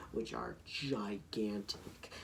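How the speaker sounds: slow whispered aside. Real, not acted. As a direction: whisper it slowly. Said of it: "whispered aside".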